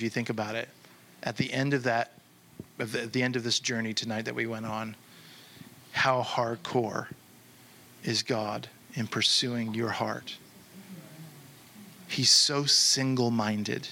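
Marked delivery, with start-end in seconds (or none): 5.9-13.9 slow, measured preaching with long pauses; earnest sermon closing. Real, not acted. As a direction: bring it home gently, phrase by phrase. Solemn sermon closing over music.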